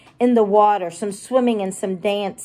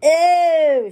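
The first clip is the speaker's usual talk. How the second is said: higher, louder disgusted ew; children shouting; 6 semitones higher, 4 dB louder than usual. Acted. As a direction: yell it like grossed-out kids. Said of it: "shouts the children".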